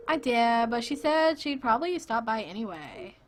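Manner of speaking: lightly voiced annoying woman; a hint of an irritating girl, punched opening; annoying female voice. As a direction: put on a mildly annoying feminine voice. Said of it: "the most annoying female voice possible".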